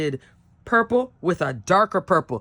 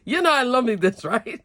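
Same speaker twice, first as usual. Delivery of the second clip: laughing delight, a bit fast and higher; 6 semitones higher than usual. Real, not acted. Crafter laughing to viewers over her card. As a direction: giggle through the words, thrilled.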